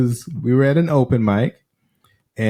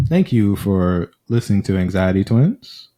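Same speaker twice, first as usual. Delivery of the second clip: radio voice; 3 semitones lower than usual. Acted. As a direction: announce it like a DJ. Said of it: "put her little radio voice on".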